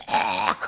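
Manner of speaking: low, open gag that finally clears; full retch. Retold or imitated. Child finally retching it out, low and full. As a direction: let the retch come out all the way. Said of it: "진짜 시원하게 소리가 나온 거야".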